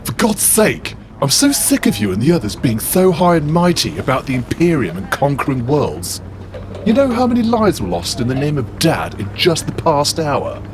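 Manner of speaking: Horace building to a high, heated outburst; impassioned rant. Acted.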